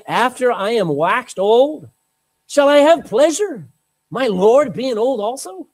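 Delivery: incredulous amusement. Acted. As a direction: act out Sarah's amused disbelief. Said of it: "She laughed within herself, saying".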